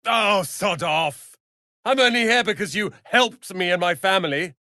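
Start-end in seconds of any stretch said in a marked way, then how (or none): 0.1-1.4 angry shout. Acted. Angry companion snaps in quarrel.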